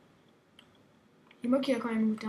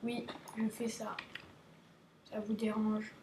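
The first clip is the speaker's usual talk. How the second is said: softer whispered tease; 4 semitones lower, 11 dB quieter than usual. Pretend. Streamer teasing viewers, whispered question.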